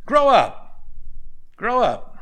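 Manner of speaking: loud, high, emphatic command; shouted exhortation. Real, not acted. Preacher urging congregation to mature, shouted exhortation. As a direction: belt it out twice at the congregation.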